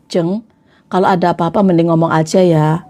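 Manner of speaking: low, composed word to a friend; calm frankness. Shown as a demonstration. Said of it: "Berani ngomong seperti itu". (menegur teman dengan tenang, suara rendah)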